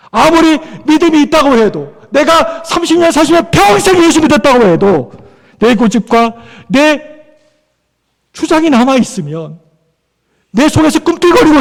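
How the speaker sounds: fervent exhortation from the pulpit; impassioned preaching. Real, not acted. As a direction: press each point on the congregation with full conviction. Preaches with rising force.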